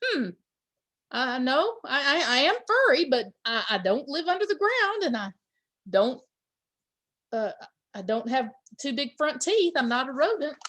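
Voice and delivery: a hint of a chatty monkey answering questions. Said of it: "The monkey says".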